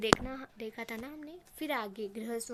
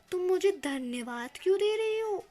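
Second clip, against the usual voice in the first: angry question; 6 semitones higher, 6 dB louder than usual. A narrator's reading. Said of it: "गृहस्वामी कहता है कि".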